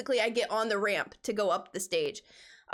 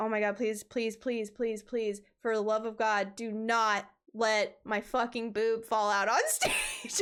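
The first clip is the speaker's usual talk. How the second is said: put-on frantic, freaked-out, panicked pleading; 9 semitones higher than usual. Telling a story about a stage mishap, she acts out her own frantic pleading in the moment, as a mock-panicked plea. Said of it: "I'm freaking out".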